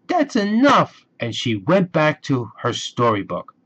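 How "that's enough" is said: high-pitched insistent that's enough; frightened protest. Acted. Sister shutting down her brother's spooky reading, high rattled protest. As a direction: cut him off, rattled. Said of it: "putting her fingers in her ears".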